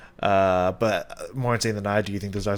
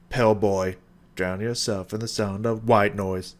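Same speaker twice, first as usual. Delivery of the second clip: put-on "Pill boy" and "white noise" with both syllables accented; double stress on rhymes. Shown as a demonstration. Reviewer showing how the rapper accents the rhyme, double stress. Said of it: "accents and emphasizes".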